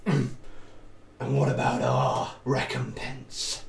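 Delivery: very slow, grave barbarian demand; slow menacing barbarian. Acted. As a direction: demand payment slowly and heavily. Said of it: "And they say".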